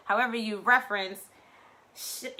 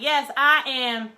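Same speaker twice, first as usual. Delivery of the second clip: proud declaration; 4 semitones higher, 3 dB louder than usual. Retold or imitated. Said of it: "I be screaming it from the rooftop".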